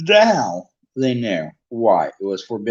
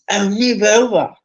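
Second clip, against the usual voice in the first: impatient, louder snarl; 9 semitones higher, 6 dB louder than usual. Acted. Hermione snarling at Ron to move. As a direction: shove him aside with words. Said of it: "Hermione snarled".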